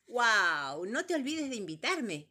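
loud, high excited bird cry; shouted bird. Acted. Calandria shouting to number three while flying off. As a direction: shout it up to him as you fly off. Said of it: "gritó la calandria".

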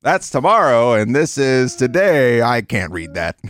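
annoyed presenter impression, stretched out; Bill O'Reilly outburst. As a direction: imitate a host fumbling the teleprompter. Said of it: "what was the Bill O'Reilly one".

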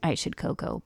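hushed unvoiced whisper of I should cocoa; quoting the phrase. Host whispers the odd Cockney phrase to co-host, hushed. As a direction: breathe I should cocoa almost silently. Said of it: "instead of saying".

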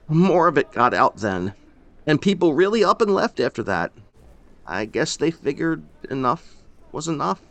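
tired and resigned; weary old man. Acted. Old man tells the stranger what the town did, resigned.

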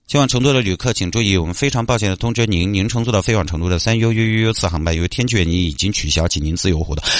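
a light mock gate announcement; airport announcement. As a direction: read it like a lightly voiced airline PA.

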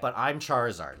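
put-on mildly insistent kid at play; mock playground declaration; acted second-grader. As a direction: stake your claim like a child at recess. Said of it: "just telling everyone that".

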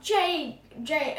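lightly acted holler; mild acted shout. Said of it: "turn around and just shout".

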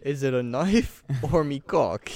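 mock British mugger cracking up; put-on British accent with a laugh; comic British threat, laughing midway; British accent attempt. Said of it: "do your best British accent".

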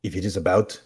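lightly voiced grumpy landlord; a hint of a dismissive building manager; Mister Holstrom. Landlord answering tenants' knock, lightly voiced brush-off. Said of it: "And that is Mister Holstrom".

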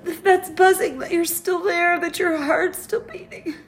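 real tearful laugh; a broken laugh that turns into crying; crying with a little laugh; laughing through tears. Real, not acted. Remembering the hospital room.

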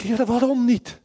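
luid en hoger, smekend vragen; wanhopige uitroep. Retold or imitated. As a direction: roep het uit naar God, niet begrijpend. Crying out to God in despair. (luide wanhopige vraag aan God)

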